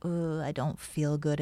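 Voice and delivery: groaning fake-sick voice; faking frailty. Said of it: "in my voice".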